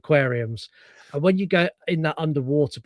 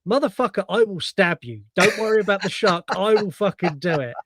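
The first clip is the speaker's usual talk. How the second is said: mock menace; 3 semitones higher than usual. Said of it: "goes from uber customer service to".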